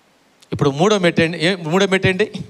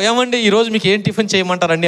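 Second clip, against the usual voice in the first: a touch of a wife's gentle morning kindness; lovingly; 2 semitones higher than usual. Retold or imitated. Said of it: "ప్రేమతో". (భర్తకు tiffin అడుగుతూ భార్య, కొద్దిగా ప్రేమగా)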